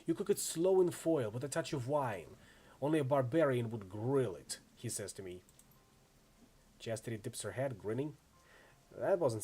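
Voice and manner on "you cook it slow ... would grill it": sneering elf. Retold or imitated. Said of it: "screws his face up into a sneer".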